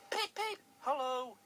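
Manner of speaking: high, loud cheery peeps; cheerful whistle. Acted. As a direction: toot a happy hello. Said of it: "he whistled cheerfully".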